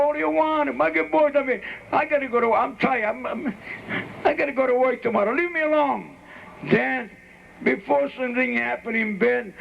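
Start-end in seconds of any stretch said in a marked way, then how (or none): 0.0-6.1 pestered father grumbling at higher pitch; acted tired exasperation; irritated. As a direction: brush off a pestering child. Tired father rebuffs pestering son.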